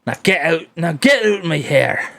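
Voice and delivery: Scottish "get out" order; Scottish accent. Acted. Governor orders the visitors out, Scottish accent. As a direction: throw them out in a Scottish accent. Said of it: "how well can you do Scottish?".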